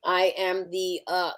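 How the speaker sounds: talking while eating chicken; words round a bite of food; eating crunchy fried chicken. Real, not acted. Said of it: "I'm eating chicken wings".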